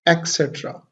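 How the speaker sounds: et cetera as "ek-SET-ra"; common mispronunciation. Shown as a demonstration. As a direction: put a K in place of the first T of et cetera. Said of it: "most of us pronounce it". (et cetera का ग़लत उच्चारण, "एक्सेट्रा")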